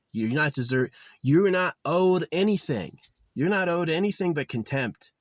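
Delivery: You're punched loud and high; angry outburst. Real, not acted. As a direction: tell the creator off in a fury. Ranting at the creator.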